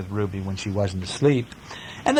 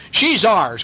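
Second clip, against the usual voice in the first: a touch of high loud squabbling duck; quacking duck; 8 semitones higher, 5 dB louder than usual. A narrator's reading. Duck squabbling with sheep, mildly higher and louder. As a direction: claim her like a cross duck. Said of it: "quacked the duck".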